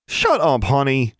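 high, exasperated scolding cry; distraught and angry. A narrator's reading. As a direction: scold a foul-mouthed pet, upset. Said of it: "sounding more distraught and angry".

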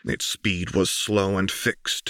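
plain reading voice

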